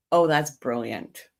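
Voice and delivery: slow, understated sarcastic praise. Shown as a demonstration. Streamer showing her chat how she says brilliant, sarcastic. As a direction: give it a little sarcastic tone. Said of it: "being sarcastic ... Give it a little tone".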